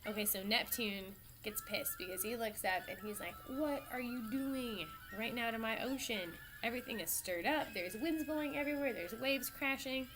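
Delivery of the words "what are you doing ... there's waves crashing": mildly outraged, incredulous scolding; hammed-up indignation; indignant sea god. Neptune angrily confronts the winds.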